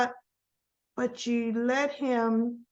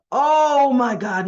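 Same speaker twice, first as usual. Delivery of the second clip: alarmed; 6 dB louder, much slower than usual. Real, not acted. Reacting to tense scene.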